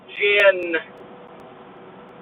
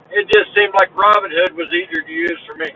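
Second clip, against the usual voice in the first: talking through hiccups; hiccuping between words. Real, not acted. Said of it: "got the hiccups".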